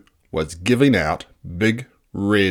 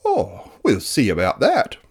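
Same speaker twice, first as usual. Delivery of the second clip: twittered. Acted. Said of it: "twittered Mildred".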